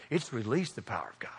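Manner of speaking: whispery, low, with "release" leaned on; hushed stress on release. Real, not acted. Preacher giving today's challenge, "release" stressed in a hush. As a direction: sink to a whisper, weighting "release".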